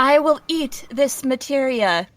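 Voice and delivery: slow, even robot voice; toy robot voice. Pretend. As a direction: answer like an obedient toy robot. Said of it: "Robot Kai".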